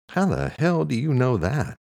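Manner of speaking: high-pitched, incredulous curious question; puzzled and wanting to know. A narrator's reading. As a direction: ask it baffled, pitched well up. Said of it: "Eamon said curiously".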